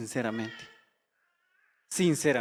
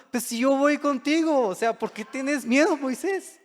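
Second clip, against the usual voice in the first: voicing God; 8 semitones higher than usual. Preacher voices God to Moses.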